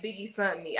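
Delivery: quoted mispronounced "sent", like "sunt"; imitating mispronunciation. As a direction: mimic her "sent" said as "sunt". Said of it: "I realized she meant sent".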